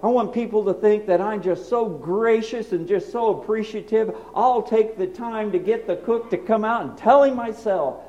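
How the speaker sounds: earnest sermon delivery; preaching. Acted. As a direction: preach it to the congregation.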